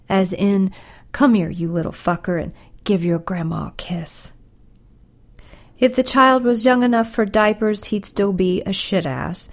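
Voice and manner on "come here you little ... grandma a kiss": grandma's endearment. Acted. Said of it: "term of endearment".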